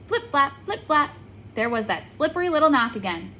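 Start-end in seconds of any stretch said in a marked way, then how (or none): 0.1-1.1 sound effect. A narrator's reading. Frog coming again.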